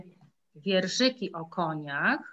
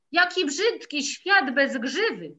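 yell; 6 semitones higher, 4 dB louder than usual. Acted. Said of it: "wrzasnął koń".

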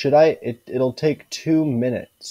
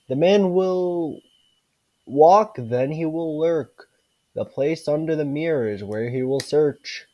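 storybook narration. Acted. Reading the storybook about the man from the window, storybook narration. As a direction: read out a creepy rhyme, lightly dramatized. Reads storybook rhyme aloud.

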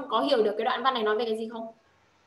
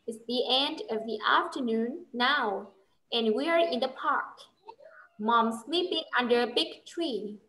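slow model reading; much slower than usual. Shown as a demonstration. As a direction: read the letter slowly as a model for the pupil. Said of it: "cô sẽ đọc lại bức thư này".

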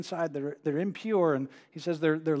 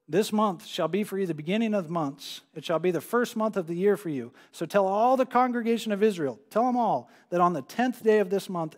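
measured, raised pulpit reading of Exodus; Scripture reading; 2 semitones higher than usual. Acted. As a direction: proclaim the text to the congregation. Reads Scripture aloud to congregation.

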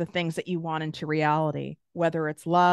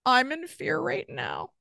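higher, exposed confession of fear; admitting fear, voice lifted higher; vulnerable admission; 5 semitones higher than usual. Shown as a demonstration. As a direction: let the fear show as you name it. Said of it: "So I'm gonna do it with you".

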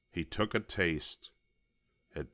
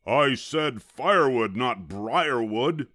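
loud, higher pained yelp; 5 semitones higher, 6 dB louder than usual. A narrator's reading. Varmint pricked by thorns, yelping crossly. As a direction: yelp it crossly, stretching the last word. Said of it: "he yelped".

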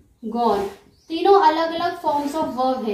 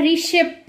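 रिशिप with weight on the closing शिप; रिशिप, second syllable stressed; stress on last syllable; slower than usual. Shown as a demonstration. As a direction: lean into the final प of रिशिप. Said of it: "प पे ज्यादा stress दिया जा रहा है".

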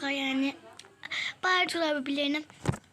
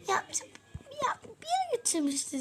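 mimicking husband; 11 semitones higher than usual. Quoting husband's evasive answer.

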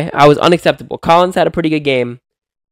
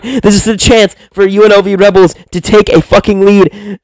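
excited play-by-play; 5 semitones higher than usual. Real, not acted. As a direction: yell the action as it happens. Live call, shot blocked, lead chance.

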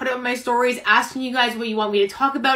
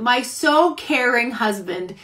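tag sarcastic. Real, not acted. Sarcastic praise of uncaring husband.

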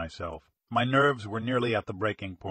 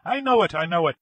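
high, loud hysterical insistence; frantic, high-pitched certainty; shrieked insistence; 6 semitones higher, 6 dB louder, faster than usual. A narrator's reading. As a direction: cry it out wildly, twice over. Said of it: "he shrieked".

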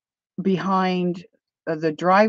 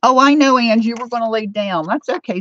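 higher, louder, quick coo of sympathy; fussing sympathy; 5 semitones higher, 5 dB louder, faster than usual. Real, not acted. Speaker to Angie about lying down, fussing sympathy. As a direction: fuss over a sweetie in a raised, lilting voice.

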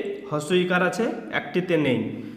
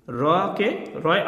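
slow separated reading; much slower than usual. Shown as a demonstration. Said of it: "আলাদা করে বলে নিলাম".

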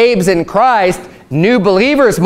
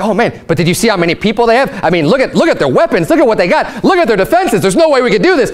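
mock panicked soldier; 2 semitones higher, faster than usual. A preacher imitating a soldier who panics before battle, mild mock fear rising. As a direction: play a frightened soldier talking himself into panic, a touch hammed. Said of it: "starts freaking out".

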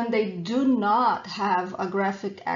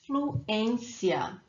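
fluência as flu-ÊN-cia; stress on accented ê. Shown as a demonstration. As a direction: model fluência, hitting ÊN and letting cia drop. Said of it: "the emphasis is where the accent is".

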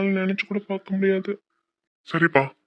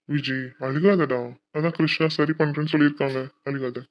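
tender soothing; 2 semitones lower than usual. Acted. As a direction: gently hush someone who is crying. Husband soothes his crying wife.

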